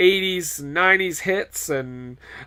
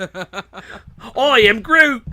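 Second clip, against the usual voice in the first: Groot impression; 5 semitones higher, 4 dB louder, much slower than usual. Host mishearing struth, laughing slow Groot voice. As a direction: drag out I am Groot like the tree. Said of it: "I thought you said Groot".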